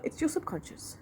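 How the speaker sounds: whisper. Retold or imitated. Quoting the teacher's calm reply.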